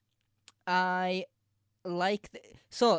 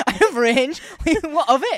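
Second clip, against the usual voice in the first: high, louder cheeky boast; mock defiant; 9 semitones higher, 12 dB louder than usual. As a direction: own it, playfully defiant. Mock boast after yell.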